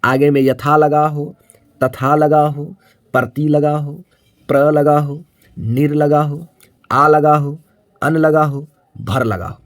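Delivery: slow, evenly pitched list with pauses; dictation. Real, not acted. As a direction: dictate item by item, stretching each one. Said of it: "सभी बच्चे copy पर जरूर लिख लीजिए". (श्रुतलेख जैसा धीमा, रुक-रुककर बोलना)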